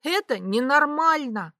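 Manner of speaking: mild outrage; indignant. A narrator's reading. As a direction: insist it's not right. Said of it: "возмутилась Ви".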